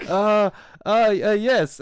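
loud, high-pitched mock hesitation; imitated flustered stammer. Cornered passenger answering about Jesus, mock flustered stammer.

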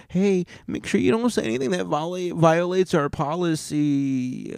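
lightly mocking, high-pitched moderator; policy enforcer. Platform warning a podcaster about policy, high mock voice. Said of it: "they say".

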